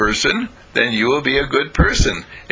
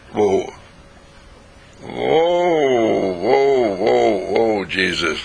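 1 startled whoa; much slower than usual. Acted. Friend stops Jesus mid-speech.

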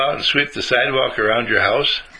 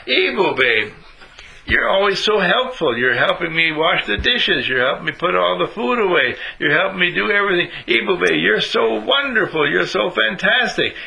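put-on higher, bright-eyed mother gushing over her helpful boy; praising mom voice; 5 semitones higher than usual. A mother praising her son, higher and gushing. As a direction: gush praise like a proud mom.

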